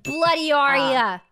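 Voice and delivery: playful stab at British; attempted British accent. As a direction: try out a hammed-up British accent. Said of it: "British accent, go".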